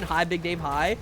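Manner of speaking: barely changed rock-giant greeting, near own voice; a hint of a stony Malphite hello; lightly voiced Malphite saying hi; Malphite impression. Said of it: "Check out my Malphite impression".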